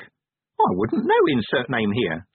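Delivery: high, drawn-out little imp voice; high start dropping away at the end; imp disclaiming. Acted. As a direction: disown the question slowly as a small creature. Imp disclaims any opinion.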